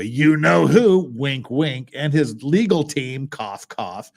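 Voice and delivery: slow, drawn-out sarcastic insinuation; snide mocking aside. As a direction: lean on it with a sly wink. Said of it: "You don't have to go".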